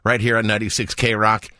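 radio announcer. Acted. Radio host read.

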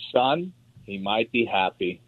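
slow, soft and calm; calm fatherly. Retold or imitated. Father calmly answering his young son, slow and soft. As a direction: say it gently like a patient father. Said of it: "my father said very calmly".

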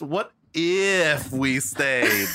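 a scheming general stalling, pitched well up; hammed-up scheming general. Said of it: "the command is kinda going".

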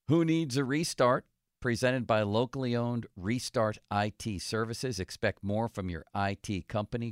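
measured announcer read of sponsor tags; radio sponsor read. Acted. Radio host reading sponsors to listeners before the break, announcer style. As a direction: read the sponsor credits out, each line falling at the end.

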